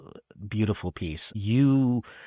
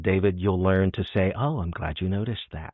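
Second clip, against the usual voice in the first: deadpan. Retold or imitated. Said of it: "turned to me deadpan".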